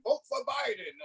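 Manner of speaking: a joking impression of a staged Jesus endorsement; mock divine announcement. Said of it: "God, he's the chosen".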